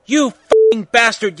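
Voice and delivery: hammed-up furious yell; angry yell. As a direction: yell it, stretching the words out. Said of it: "yelled Draco at Vampire".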